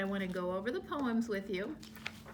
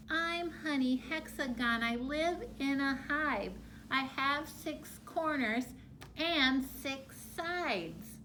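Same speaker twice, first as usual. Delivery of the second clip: mild bumblebee; 3 semitones higher, slower than usual. Shown as a demonstration. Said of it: "I like to say honey hexagon like a little bumblebee".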